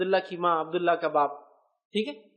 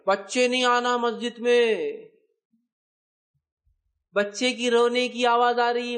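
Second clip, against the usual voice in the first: mock complaint; 2 semitones higher, 3 dB louder than usual. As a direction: parody the grumbling worshippers, dragging it out. Mocking people who shoo children. (ناراض نمازیوں کی نقل، آہستہ)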